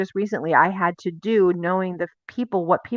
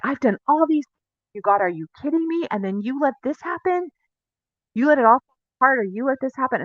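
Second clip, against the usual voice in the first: raised, pleading indignant complaint, voice climbing higher; angry at God; 6 semitones higher than usual. Retold or imitated. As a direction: relive the old frustration, half-performed. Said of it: "And I was angry".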